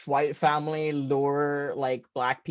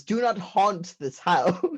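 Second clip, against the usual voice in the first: mock ghostly warning; 5 semitones higher than usual. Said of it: "What I heard was".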